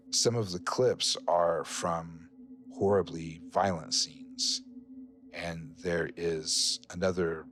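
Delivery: slow, deliberate scene-setting; game master narration. Acted. Game master describes violent clips to players, slow narration. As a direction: let each broken image land with a pause.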